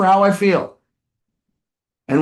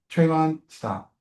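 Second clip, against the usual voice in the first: low-key, softer and slow; calm firmness; 3 semitones lower, 6 dB quieter, slower than usual. Acted. Coach models a parent's reply to a son, calm. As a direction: set a boundary without heat.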